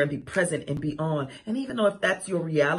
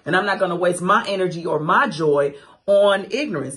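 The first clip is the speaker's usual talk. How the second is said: ordinary delivery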